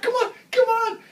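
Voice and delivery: high, loud impatient yell; impatient shout. Retold or imitated. Jerry losing the fish, yelling impatiently at John. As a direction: hurry him up, frantic. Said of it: "It's like".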